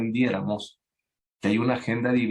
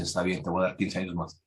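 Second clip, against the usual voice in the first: lower, softer, granting the request; calm voice of God; 4 semitones lower, 5 dB quieter than usual. Retold or imitated. God answering Ezequías' plea, low and softer. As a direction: speak as a patient God, low and gentle. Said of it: "El Señor dice".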